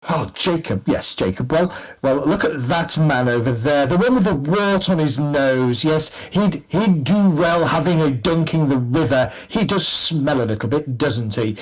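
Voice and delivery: lightly voiced snooty drinker; mocking fop. Fop to Jacob, mocking a man's smell. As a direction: gossip snidely to a drinking companion.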